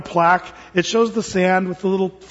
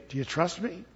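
soft, unhurried divine question; voice of God; 13 dB quieter than usual. Acted. God repeats the question to the climber, soft voice of God. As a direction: ask very softly, as God. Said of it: "And the Lord says".

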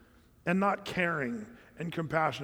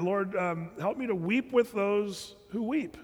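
prayer; 3 semitones higher, slower than usual. Pretend. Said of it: "the Lord reminded me".

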